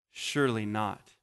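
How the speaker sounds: stunned hush. Retold or imitated. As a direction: let it sink in quietly. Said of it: "And then there's this pause".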